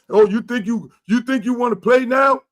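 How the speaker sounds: mock taunt; taunting coach. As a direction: needle him like a bully coach. Coach taunting player, retold.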